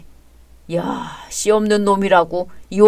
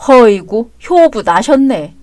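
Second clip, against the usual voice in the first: sarcastic; 5 dB louder than usual. Acted. Sarcastic jab at spouse's filial act.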